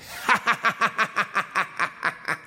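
long mocking staccato cackle; spiteful laugh. A narrator's reading. Gazelle laughs at the wolf's funny voice, spiteful cackle. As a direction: laugh maliciously in a string of short bursts. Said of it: "lacht eine Gazelle hämisch".

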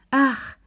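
high sentimental sighed ach. A narrator's reading. Charlotte Pelou sighing fondly over the young couple. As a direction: let out a fond, high sigh. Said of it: "seufzte sie".

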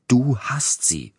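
high, loud, drawn-out accusation; stubborn insistence. A narrator's reading. Feverish patient accuses his carer over the watch, stubbornly insistent. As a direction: insist on it, stretching every word. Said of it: "behauptete er hartnäckig".

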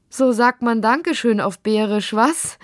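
amüsiert, mit Lachen in der Stimme; lachend. A narrator's reading. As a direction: sprich belustigt, höher und lebhaft. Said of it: "sagte sie lachend". (vergnügt lachende Mutter)

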